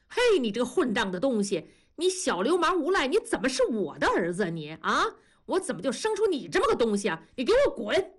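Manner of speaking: high, raging rebuke ending in a yell; furious father. Acted. Father throwing his son out of the house, furious. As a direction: throw him out, voice rising to a shout.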